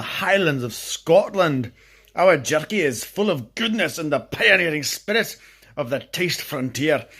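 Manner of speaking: hammed-up Scottish accent on the ad copy; mock Scottish accent. Vlogger reading jerky packet aloud, mock Scottish accent. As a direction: read the jerky blurb in a playful Scottish accent. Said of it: "didn't start the Scottish accent until I got to Highlands".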